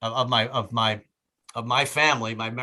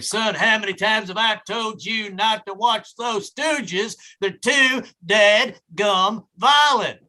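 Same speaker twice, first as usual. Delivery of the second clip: hick father; 7 semitones higher, 4 dB louder, much slower than usual. Retold or imitated. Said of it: "My father would beat the crap out of me".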